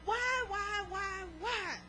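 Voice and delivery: preacher voicing a church member whining to the Lord; lament to God. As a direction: act out a complaining believer praying. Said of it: "sitting there thinking".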